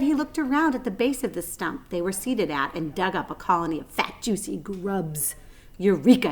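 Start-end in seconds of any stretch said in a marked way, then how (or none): 5.8-6.3 loud happy exclamation; excited cry. Acted. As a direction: shout it with delight. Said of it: "he cried".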